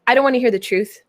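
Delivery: stubborn, refusing to listen; defiant viewer voice. Pretend. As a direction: say it like a viewer who won't listen. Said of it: "You might".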